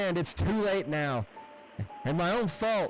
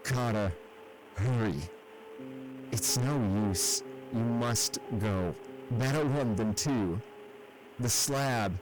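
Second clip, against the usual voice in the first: fading man urging his friend away; faint whisper; 3 semitones higher, 8 dB quieter than usual. A narrator's reading. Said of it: "his next whisper found me".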